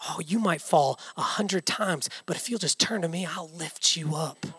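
gently reassure, easing down at the end; tender, quiet voice of wisdom; loving reassurance. Acted.

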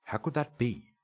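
loud, high-pitched disbelief; incredulous protest. Acted. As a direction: challenge an impossible claim. Inspector disbelieves the dead woman returned.

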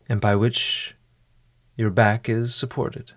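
measured instructions with long pauses; guided meditation. Acted. Host settling a listener before a mindful meal, guided meditation. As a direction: guide the listener unhurriedly, leaving room after each step. Leads a mindful eating exercise.

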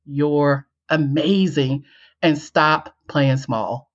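slow and deliberate, each word weighed; slow, sincere advice. Retold or imitated. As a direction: deliver it as life-changing wisdom. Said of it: "She said".

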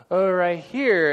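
drawn-out pretend eureka; mock discovery. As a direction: land slowly and loudly on the random pick. Acting out random verse picking.

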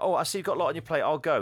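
a flustered guest excusing herself politely; hurried lady. Retold or imitated. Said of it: "the lady's like".

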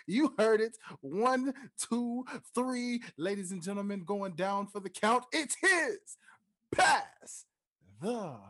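slow, high, booming ringmaster call; grand entrance announcement. Acted. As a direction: draw it out like a circus ringmaster. Ringmaster style show intro.

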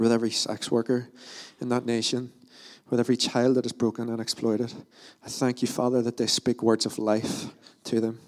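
steady, heartfelt prayer voice leading the room; earnest prayer. Acted. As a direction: pray over the team, calm and sincere. Leads a congregational prayer.

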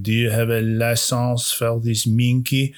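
a hint of Clouseau's mangled French accent; lightly mock Clouseau's grotesque French. Co-host quoting Clouseau to the monkey man, hinted French accent. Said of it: "and he's like".

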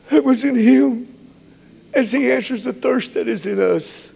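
high, fervent preacher's voice; high-pitched, moved sermon delivery; impassioned preaching. Real, not acted. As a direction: preach it high with emotion rising in the voice. Impassioned preaching, choked laugh.

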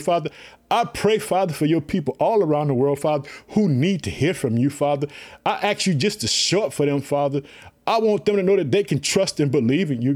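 heartfelt spoken prayer. Acted. Leads a prayer.

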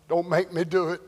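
soft, subdued acted plea; understated begging; quiet pleading. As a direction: beg under your voice. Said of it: "is crying".

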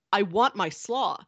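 slow, insistent customer; insistent retold demand. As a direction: repeat the demand slowly and firmly. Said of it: "Just shouting".

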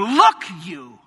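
disrespectful greeting. Retold or imitated. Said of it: "This is how this boy greets his father".

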